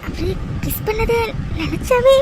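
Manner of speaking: slow, shy musing; bashful. Acted. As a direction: savour it bashfully, taking your time. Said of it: "வெக்க வெக்கமா வருது". (வெட்கத்துடன் மெதுவாக)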